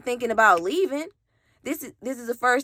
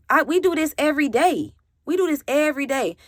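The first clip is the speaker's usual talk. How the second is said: higher, exasperated protest; incredulous; 6 semitones higher, faster than usual. Retold or imitated. Girlfriend protests to her boyfriend, higher and exasperated. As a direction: insist it's normal, disbelieving.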